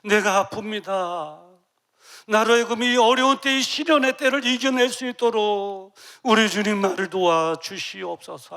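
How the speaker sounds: loud, slow, pleading cry to God; crying prayer. Acted. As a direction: beg God at full voice. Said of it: "막 울면서 기도한 거예요". (울부짖는 기도)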